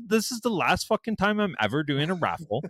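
laughing through the words. Real, not acted. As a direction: laugh it off in disbelief. Laughing at his own bad luck.

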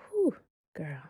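hushed whisper, voice dropped to air; whispered vent. Retold or imitated. Friend whispering a private vent about the crowd, hushed whisper.

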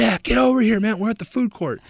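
high, loud imitation of a friend on the phone; excited calling over. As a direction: holler for your buddy to join you.

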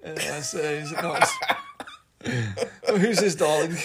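jokey fake posh accent showing off his voice. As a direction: play the toff, mock-grand and camp. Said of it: "your fake posh accent".

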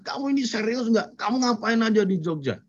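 a mild imitation of an annoyed parent; angry father. Father scolding his son over skipped exams, mildly angry. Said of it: "bapaknya yang marah".

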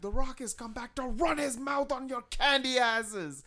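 trash-talk the crowd like a heel; hammed-up wrestler boast; The Rock promo. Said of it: "He's like".

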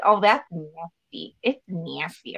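mildly imitated nasal Michigan vowels; nasal Michigan accent. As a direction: say it through the nose like a Michigander. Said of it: "everyone talks through their nose".

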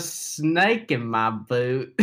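Woody voice. Acted. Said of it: "That is Woody".

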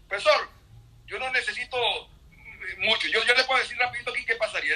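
quoted classmate. Retold or imitated. Venezuelan classmate answers the professor's question, animated imitation. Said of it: "Entonces se paró".

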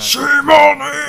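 西莫尼 with a high squeaky 尼; cute high voice. Shown as a demonstration. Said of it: "再man的人讲西莫尼都会变很可爱".

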